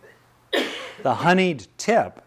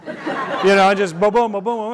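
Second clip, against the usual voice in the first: excited mimicry; 9 semitones higher, 6 dB louder than usual. Imitating a barrage of deflection.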